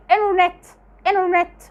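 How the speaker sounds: انترنت said as "innernet" with no T; American internet; t dropped. Shown as a demonstration. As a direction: drop the T after the N in انترنت. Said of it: "مش بينطقوها".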